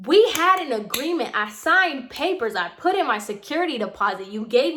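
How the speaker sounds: high, emphatic retold protest; stern, pissed. Tenant reminding landlady of the signed agreement, stern and pissed. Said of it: "I'm being very stern because I'm pissed".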